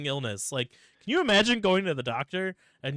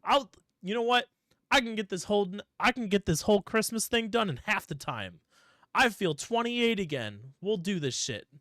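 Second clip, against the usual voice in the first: cocky Santa; 6 semitones higher, 3 dB louder than usual. Retold or imitated. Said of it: "He's like".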